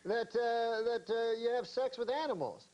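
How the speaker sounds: indignant. Retold or imitated. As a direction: protest like you've been wronged. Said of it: "like, indignant".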